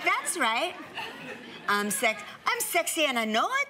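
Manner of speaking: half-successful Irish lilt, laughing along; weak Irish accent. Shown as a demonstration. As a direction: have a shaky go at an Irish accent. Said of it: "that's my weak attempt at Irish".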